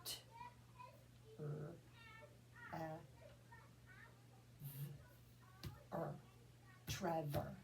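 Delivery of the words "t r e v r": each letter said alone with long gaps; letters pulled apart one by one; sounded out letter by letter. Shown as a demonstration. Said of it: "I'm gonna sound out".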